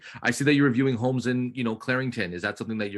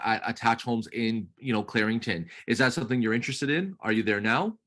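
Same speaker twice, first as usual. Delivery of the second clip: slower sales pitch. Shown as a demonstration. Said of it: "without role playing so you can hear it".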